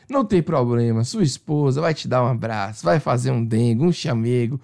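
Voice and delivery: gently console, lightly acted; retold consoling. Receptionist comforting client after waxing, mock soothing.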